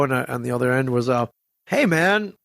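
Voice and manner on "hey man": happy hey man. Retold or imitated. Jay calling back on the phone, happy greeting. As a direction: greet like a delighted buddy. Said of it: "it was a happy".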